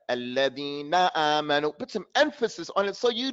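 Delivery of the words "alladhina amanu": "Alladhina amanu", lower, with a full "na"; emphasized word ending. Shown as a demonstration. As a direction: press on the last syllable of "Alladhina". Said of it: "Put some mm on the end of that word".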